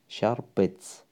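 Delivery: شربت as "shar-bet", no vowel after the r; second letter silent. Shown as a demonstration. Teacher showing the she-form, شربت with a vowelless r. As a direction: close the first syllable of شربت on r.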